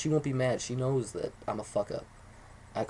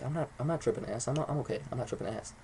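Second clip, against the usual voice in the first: self-reassurance, trailing off softer; playing it cool; 5 dB quieter than usual. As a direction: act casual, convincing yourself you're fine. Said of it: "I'm gonna play cool".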